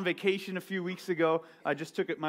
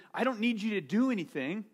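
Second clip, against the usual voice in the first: gentle Jesus; 4 dB quieter than usual. Retold or imitated. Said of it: "Jesus says".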